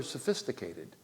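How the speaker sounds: slow, drawn-out ironic "sophisticated"; mock sophisticated. Preacher mocking churchgoers' pride, ironic and slow. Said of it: "I said sophis".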